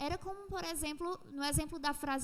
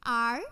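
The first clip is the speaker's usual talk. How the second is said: Are said loud and set apart; stressed Are; 7 dB louder than usual. Shown as a demonstration. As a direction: punch Are as the opening word. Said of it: "ó". (Are bem forte e destacado)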